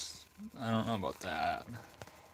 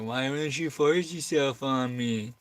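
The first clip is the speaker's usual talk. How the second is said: lightly voiced, higher female dog; slow, higher-pitched imitated protest; a hint of put-on indignation; mock complaint; 4 semitones higher, 4 dB louder, slower than usual. Voicing female dog's complaint.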